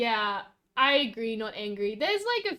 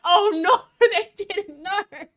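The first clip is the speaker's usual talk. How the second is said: mock dismay; 7 semitones higher, 10 dB louder, slower than usual. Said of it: "And I'm gonna be like".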